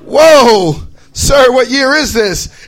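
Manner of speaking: a loud whoa, then slow bewildered question; startled time traveler. Retold or imitated. Lost traveler asking a stranger, slow and startled. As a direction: gasp it, then ask slowly.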